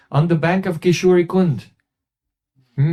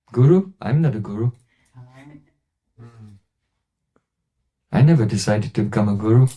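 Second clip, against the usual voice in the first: lower, gentle and unhurried; very gently; 5 semitones lower than usual. Retold or imitated. Gurudev gently answers the scholar's question, lower voice. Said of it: "just very, very gently".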